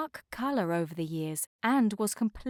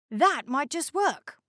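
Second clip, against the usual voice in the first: icebreaker character voice; 6 semitones higher, 3 dB louder than usual. A narrator's reading. Castor voice.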